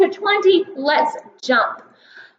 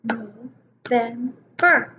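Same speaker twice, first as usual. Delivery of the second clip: slow, syllable by syllable; clapping syllables; 4 semitones lower, 4 dB quieter, much slower than usual. Shown as a demonstration. Teacher to kindergartners, clapping No-vem-ber out slowly. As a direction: clap out each beat of November. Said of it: "How many times did we clap".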